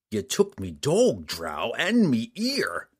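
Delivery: slow, bitter rough voice; gruff bounty hunter. Acted. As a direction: spit it out slowly with grudge. Angry bounty hunter accusing.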